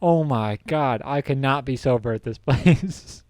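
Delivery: slow, drawn-out mock horror; retold horror. Storyteller watching from ten feet away, mock horror. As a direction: drag it out in appalled disbelief. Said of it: "watching in horror".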